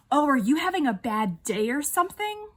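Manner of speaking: mocking imitation of fake concern; snide mimicry. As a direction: toss it out as a snide, leading question. Mimicking rude girls' snide question.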